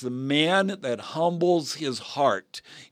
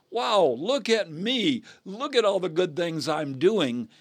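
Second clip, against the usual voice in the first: mildly boastful, higher-pitched mock quote; self-congratulating boast; 4 semitones higher than usual. Pastor mimicking a self-righteous man before God, boastful. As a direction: show off your good deeds. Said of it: "you stand before God and say".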